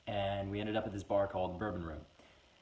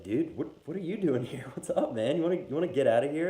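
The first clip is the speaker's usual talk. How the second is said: higher, louder bro voice; a party pal spotting his friend; buddy greeting; 6 semitones higher, 6 dB louder than usual. Acted. Jaeger bomb greeting the Maker's Mark in the stomach, excited bro voice.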